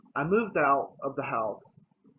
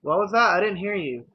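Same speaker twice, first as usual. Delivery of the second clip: higher, louder mock question; lightly voiced mom; 4 semitones higher, 5 dB louder than usual. Mom claims she didn't hear the confession, lightly imitated raised voice. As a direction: imitate a mom asking for a repeat.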